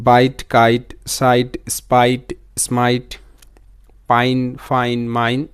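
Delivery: evenly spaced word list from বাইট to মাইন, each word distinct; pattern-wise reading. Shown as a demonstration. Teacher showing learners the sound pattern, measured listing from বাইট to মাইন. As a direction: read বাইট, কাইট, সাইট as measured rhyming groups, a pause before পাইন. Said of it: "pattern wise সাউন্ডগুলো পড়বে যেভাবে".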